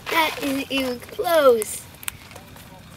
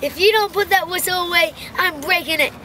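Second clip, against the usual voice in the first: annoyed threat; 5 semitones higher than usual. Acted. Robert threatens mom about whistle.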